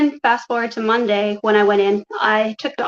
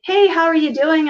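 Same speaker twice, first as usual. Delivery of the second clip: higher-pitched chummy greeting; imitated friendly sister; 7 semitones higher than usual. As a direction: mimic a sister's breezy phone hello.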